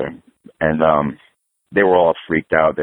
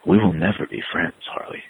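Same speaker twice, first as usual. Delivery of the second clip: grave, serious; 4 dB quieter than usual. Retold or imitated. Old guitarist holding his arm, rejecting him, gravely imitated. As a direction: quote him solemnly, letting the name fall very soft. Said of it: "got this look all serious".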